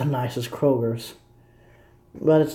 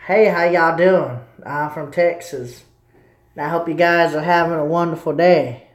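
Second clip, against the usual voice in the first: put-on mild Southern accent. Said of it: "So I was like".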